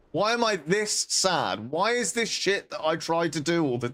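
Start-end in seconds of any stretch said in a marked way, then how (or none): 0.1-1.7 mock despair.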